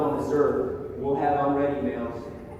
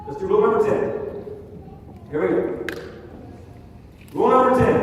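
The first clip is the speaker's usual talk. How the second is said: big announcement; 7 semitones higher, 5 dB louder, faster than usual. Real, not acted. Announcing the final rule.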